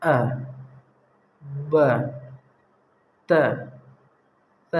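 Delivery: each letter said gently with long pauses between; calm unhurried letters. Shown as a demonstration. Teacher shows the calm, unhurried way to read letters. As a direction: take your time, settle on each letter. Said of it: "آرام سے بولنا".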